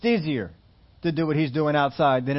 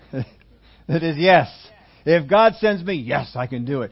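loud, confident, stretched yes; hammed-up bravado; mock bold yes; 5 dB louder, slower than usual. Preacher acting the Sunday-morning confident believer, loud. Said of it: "our answer is".

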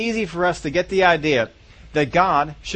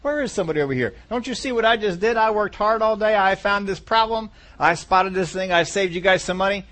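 higher, indignant demand to be thanked; entitled complaint; 5 semitones higher than usual. Acted. Worker at his job demanding thanks, mock indignant and higher. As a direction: whine that nobody noticed your hard work. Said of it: "we sometimes get that attitude that says".

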